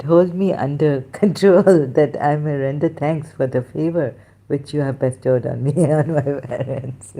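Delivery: reading the verse through bursts of laughter; laughing while reading. Real, not acted. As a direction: try to recite but keep cracking up. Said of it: "I'm laughing at myself".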